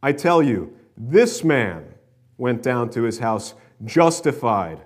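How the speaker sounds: emphatic, measured scripture reading. Acted. Preacher reading a parable to the congregation, emphatic reading. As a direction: proclaim each phrase, pausing between them.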